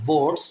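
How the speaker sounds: বোটস as "bots" with one long o; no separate a sound in বোটস; silent A. Shown as a demonstration. Teacher showing learners the A is silent, silent A. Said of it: "এখানে এর উচ্চারণটা হবে না".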